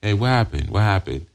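smooth predator feigning sympathy; concerned stranger, feigned. Acted. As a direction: gently check on someone crying, putting it on. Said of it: "cruise in the bus stations looking for runaways".

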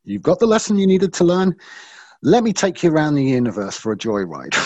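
the spirit cheerfully releasing him, lifted high. Retold or imitated. Iboga spirit tells him the lesson is learned, in a delighted high voice. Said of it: "the Iboga sort of said".

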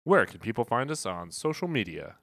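fast, punchy announcer read. Acted. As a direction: hype it like a fighting game announcer. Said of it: "Why are you talking like that?".

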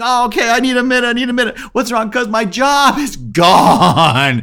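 high, loud, slowed shock; reeling from the news; shaken. Retold or imitated. Shocked after job loss news.

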